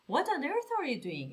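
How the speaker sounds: slow, stretched disbelief on on earth; amazed question. Shown as a demonstration. Teacher demoing a stunned question to messy kids. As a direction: draw out the shock.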